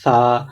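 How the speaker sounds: سا said with tongue out past the teeth. Shown as a demonstration. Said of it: "زبان کو ... باہر نکال کر پڑھیں گے". (زبان باہر نکال کر سا)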